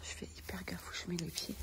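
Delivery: hushed whisper, barely voiced; library whisper. Real, not acted. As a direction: whisper so nobody hears you. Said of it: "Je parle tout bas". (chuchotement discret)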